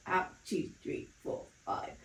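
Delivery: instructor counts the exhale, voice fading to breath; breathy counting. Shown as a demonstration. Pilates instructor counting breaths, fading to breathy. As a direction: let the count fade out on the breath.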